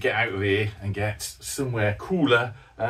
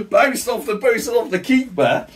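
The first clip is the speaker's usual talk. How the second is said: high, laughing through the words; 10 semitones higher, 6 dB louder than usual. Real, not acted. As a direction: giggle at the lucky bounce. Laughs at keeper save.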